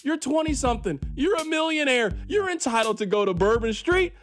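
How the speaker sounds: high, hammed-up wailing lament over music; mock lament. Host mourning Rashee Rice's news, hammed-up wailing lament. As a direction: overplay the heartbroken fan, half singing. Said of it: "mock lament over sad music".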